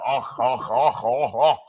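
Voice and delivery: a low, hammed-up fake moan; imitating a Russian moan. Mocking a Russian woman's moan to his friend. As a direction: ham up a foreign moan for laughs. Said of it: "That's me, I'm the Russian".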